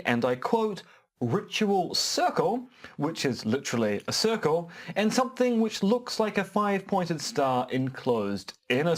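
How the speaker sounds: deliberate newsreader cadence with lifted phrases; measured announcer delivery, falling at each close; news read. Acted. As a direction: read it out like a wry news bulletin. Reads a mock news item.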